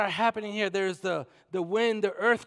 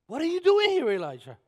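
calling out; 8 semitones higher, 6 dB louder than usual. Acted. God calls out to Elijah.

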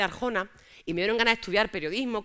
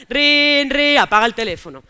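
put-on 1 boyfriend barking; 4 semitones higher, 10 dB louder, slower than usual. Phone ring and demand.

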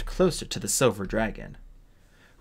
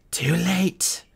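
taunting; 8 semitones higher than usual. A narrator's reading. Dragon taunts captive.

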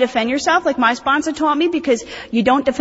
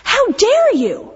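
indignant scold; 2 semitones higher, slower than usual. Retold or imitated. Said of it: "I've said to people, like".

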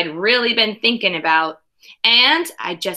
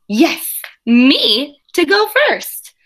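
thrilled; 4 semitones higher, 4 dB louder, slower than usual. Acted. Kid thrilled to be picked.

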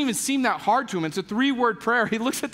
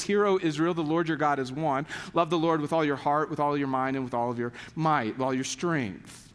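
lower-pitched, measured recital of prayer; low creed-like recitation, slowing at the end; 6 semitones lower, 3 dB quieter than usual. Acted. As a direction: recite a memorised prayer, phrase by phrase. Recites the Shema.

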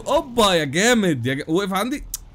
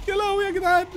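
much higher cry of disbelief; high shocked cry; 12 semitones higher than usual. Real, not acted. Gamer shocked by friend's crash, high cry. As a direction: squeal in shock.

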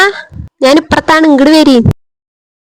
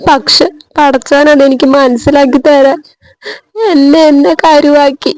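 crying. Acted. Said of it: "നീ ഇങ്ങനെ കരയല്ലേ റസീന".

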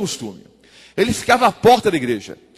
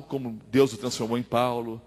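ordinary delivery

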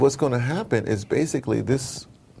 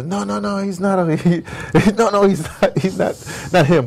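mock protest; 9 semitones higher, 3 dB louder than usual. People protesting in retold scene.

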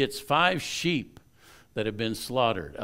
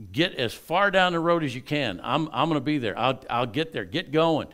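louder, pushing the servants to hurry; urgent orders; 3 semitones higher, 4 dB louder than usual. Retold or imitated. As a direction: rush them out the door, firm and loud. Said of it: "tells her servants".

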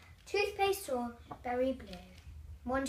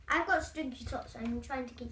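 talking round a bad jelly bean; mouth full; 2 semitones lower than usual. Real, not acted. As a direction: speak with the bean still in the mouth. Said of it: "keep the bad thing in your mouth".

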